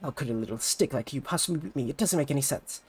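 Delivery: can't believe she lost; huffy rival idol after losing; sore loser idol. Acted. Ulala loses.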